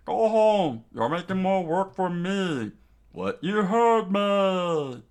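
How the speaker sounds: high, loud scolding; quarrelsome shout. Acted. Doting dad arguing with the other one, quarrelsome. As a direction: holler it, stretching the last words.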